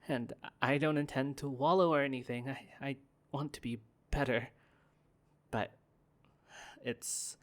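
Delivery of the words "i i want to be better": ordinary delivery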